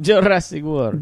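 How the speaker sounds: put-on slow, joking Italian accent; mock Italian accent. Echoing a friend's film title, slow mock Italian accent. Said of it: "everything can be Italian".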